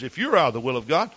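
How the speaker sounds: lightly voiced loyal wife; wife's voice. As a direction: quote his devoted wife quickly, lifting up. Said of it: "Because she says".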